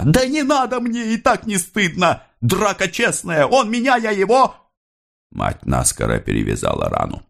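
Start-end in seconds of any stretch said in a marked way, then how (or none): 0.0-4.5 put-on a very high boyish voice shrugging off the wound; proud young lad. A narrator's reading. Wounded young worker refuses the bandage, high boyish voice. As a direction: wave off the bandage like a proud boy.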